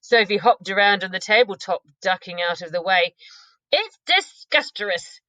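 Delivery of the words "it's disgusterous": gurgled. Acted. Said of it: "the B F G gurgled".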